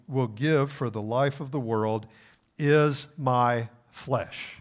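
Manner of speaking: a preacher voicing Jesus with force; bold proclamation. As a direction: proclaim it boldly to the crowd. Jesus quoted laying it out.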